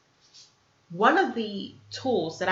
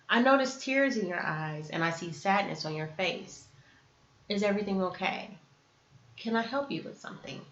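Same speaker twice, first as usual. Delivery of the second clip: soft, tender check-in; gentle concern; 5 dB quieter than usual. Acted. To someone with tears in their eyes, gentle concern. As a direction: ask softly and with care.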